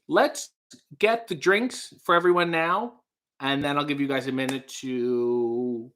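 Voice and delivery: lightly acted waiter, strained politeness; nervous laughs and throat-clearing, trying to keep order. Waiter pleading with a rowdy guest, awkwardly polite. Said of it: "That was my impression of the waiter".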